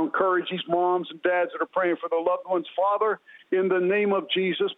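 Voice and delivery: earnest prayer, building in urgency; intercessory prayer. Real, not acted. Praying for parents of lost children, earnest and imploring. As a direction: plead with God on behalf of others. Prays for the listeners.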